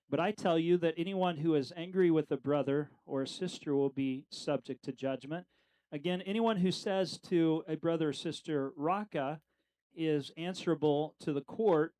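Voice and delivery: measured, slightly emphatic Bible reading; scripture reading. Acted. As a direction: read the verses aloud with deliberate emphasis. Reads scripture aloud.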